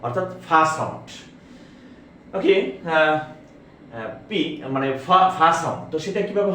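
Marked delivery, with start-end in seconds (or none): 0.0-1.1 ফা with a breathy, aspirated p; ফা said as an aspirated p sound. Shown as a demonstration. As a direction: push air out on the ফা in ফা sound.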